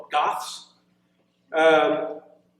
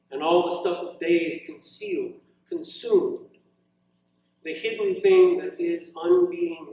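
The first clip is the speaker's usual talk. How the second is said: unhurried, deliberate poem reading with long pauses; poetry reading. Acted. Poet reading his poem to students, slow measured reading voice. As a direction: savour each line of the poem.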